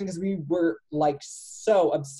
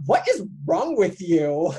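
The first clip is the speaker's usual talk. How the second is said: slow, drawn-out exasperated scolding; Uncle impression; 3 dB louder, slower than usual. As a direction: scold like a mildly hammed-up cartoon uncle. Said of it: "And Uncle's like".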